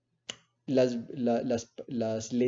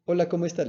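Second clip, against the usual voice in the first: greeting asked high and louder, hanging in the air; questioning tension; 7 semitones higher, 5 dB louder, much faster than usual. Shown as a demonstration. Teacher shows students how a question builds tension. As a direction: lift "Hola, ¿cómo estás?" up, leaving it open and tense. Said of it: "La pregunta genera una tensión".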